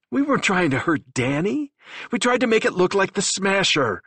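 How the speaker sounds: high, loud pleading explanation; plead, voice strained; desperate confession. A narrator's reading.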